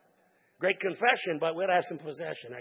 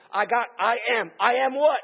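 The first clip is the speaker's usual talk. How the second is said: confused Moses; 3 semitones higher, 8 dB louder than usual. Retold or imitated. Moses puzzled again.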